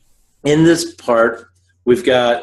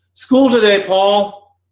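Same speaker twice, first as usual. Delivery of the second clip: high mother's voice, not quite there; mother's voice, first try; 9 semitones higher, slower than usual. Acted.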